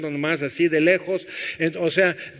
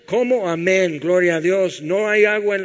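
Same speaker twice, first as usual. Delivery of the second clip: mock reflex amen; 3 dB louder than usual. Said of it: "es un reflejo, sin sentido".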